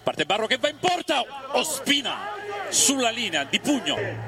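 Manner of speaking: high, slowed urgent call; urgent call of the save; excited call. Real, not acted. Late chance saved.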